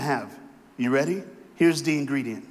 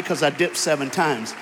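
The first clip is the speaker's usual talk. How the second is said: plain. Real, not acted. Refrain repeated with more force.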